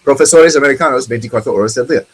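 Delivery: put-on quick American-accent Spanish ad line. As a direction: rattle off the ad slogan with an American accent. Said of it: "they don't say it with a good accent".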